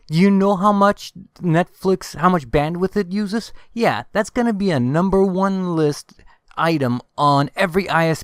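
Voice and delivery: heated, urgent ranting at viewers; angry rant. Real, not acted. Ranting to viewers about the net neutrality ruling, angry. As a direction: vent your fury about the internet ruling. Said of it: "I am incredibly angry".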